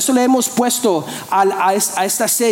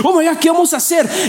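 panicked disciples; 5 semitones higher than usual. Acted. Discípulos desesperados ante la multitud.

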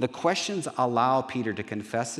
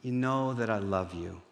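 mildly pained, softening confession; understated, wounded plea trailing down; tearful sigh; 2 semitones lower, 5 dB quieter than usual. Acted. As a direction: sigh it out, gently hurt and sinking. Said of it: "a sigh in his, in his voice".

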